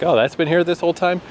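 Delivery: high, amazed disbelief; surprised. Retold or imitated. Telling about finding the café, mock surprised. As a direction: act amazed it was there all along.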